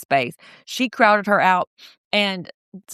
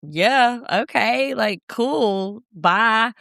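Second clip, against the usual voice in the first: higher, singsong mock brush-off; dismissive Audrey; 4 semitones higher, much slower than usual. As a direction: wave them off with airy indifference. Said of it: "Audrey's just like".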